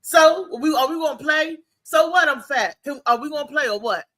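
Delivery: unbothered "so what?" thrown back loudly; defiant comeback. Retold or imitated. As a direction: challenge them to get on with it. Acting out childhood comeback.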